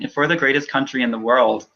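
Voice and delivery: the words break as tears rise; voice catching. Real, not acted. Candidate to host, voice catching on the words. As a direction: start the line and lose it to emotion.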